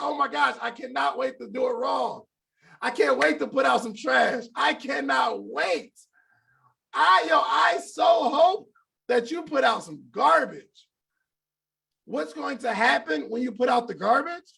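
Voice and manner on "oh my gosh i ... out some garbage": excited. Shown as a demonstration. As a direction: cheer like you can't wait to fail. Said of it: "And I want you excited, like".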